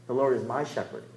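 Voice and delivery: "my" given the main weight; stress on "my". Shown as a demonstration. Preacher claiming the shepherd as his own, stress on "my". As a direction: make "my" stand out in the verse. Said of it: "you emphasize different words".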